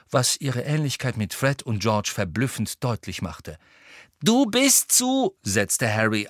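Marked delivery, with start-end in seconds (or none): 4.2-5.3 high, loud, slow emphatic start; raised-voice objection. A narrator's reading. Harry refusing to let Ginny come, forceful objection. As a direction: begin a forceful veto.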